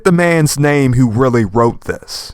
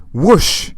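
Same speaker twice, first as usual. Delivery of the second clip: higher comic-book whoosh; voiced sound effect; 4 semitones higher than usual. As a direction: read the sound effect out in a raised pitch. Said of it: "I have to say the sound effects".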